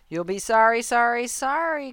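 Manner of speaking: high, loud goose warning; rising, insistent cry. A narrator's reading. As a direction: call a warning after someone leaving. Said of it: "cried, called the goose".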